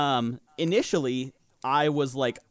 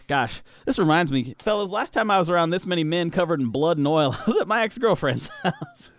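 laughing punchline; 3 semitones higher than usual. Retold or imitated. In-character joke with laughs.

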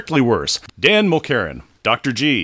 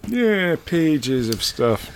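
put-on gruff old fisherman; 5 semitones higher, much slower than usual. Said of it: "Remember, you're an old fisherman".

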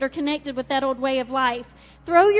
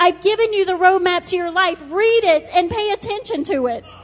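God's voice; 3 semitones higher, 3 dB louder than usual. Acted. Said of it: "God says".

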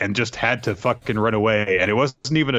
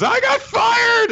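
much higher, louder and slow, a cartoon yell; hammed-up yell; 5 dB louder, slower than usual. Yasuye bluffing past the security checkpoint, hammed-up high yell. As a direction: belt it out like a silly outburst. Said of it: "Yasuye just goes".

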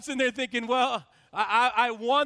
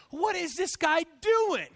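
slow, higher-pitched indignant question; re-enacted irritation, words stretched; retold exasperation; 4 semitones higher than usual. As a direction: draw it out in mock outrage. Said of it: "I'm just getting so ma-, mad".

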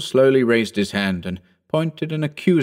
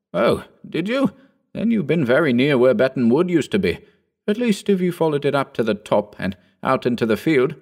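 put-on a lighter, higher young gentleman's voice; young Phillipson; 5 semitones higher than usual. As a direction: lift the voice into the eager young squire.

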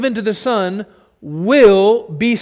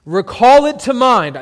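a touch louder, higher divine command; God's command; 4 semitones higher, 5 dB louder than usual. Acted. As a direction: proclaim it as God speaking. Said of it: "That's God".

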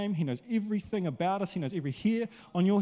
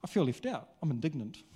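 high, whiny, put-out complaining voice; indignant churchgoer; 4 semitones higher, 3 dB quieter than usual. Retold or imitated. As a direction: moan like a hurt regular who feels left out. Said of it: "Got my indignant face on".

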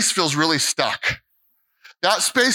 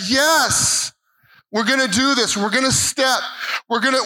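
higher, energetic declaration; rally with determination; excited resolve; 5 semitones higher than usual. Retold or imitated. Preacher reliving his resolve after saying yes to God, energetic. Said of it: "It's like".

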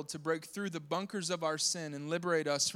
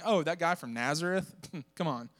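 mocking scoff. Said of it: "make fun of him later on, saying".

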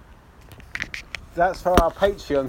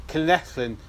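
put-on Welsh accent; 2 semitones lower, slower than usual. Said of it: "best Welsh accent I've ever done".

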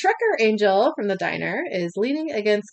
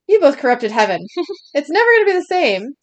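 angry; 6 semitones higher, 5 dB louder, faster than usual. Acted. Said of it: "Angry Cupid says".

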